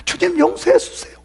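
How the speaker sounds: high whispered prayer for forgiveness; whispered plea. Retold or imitated. Guilty believer prays to the Lord, whispered. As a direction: beg forgiveness under your breath. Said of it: "또 이렇게 하는 사람도 있더라고요".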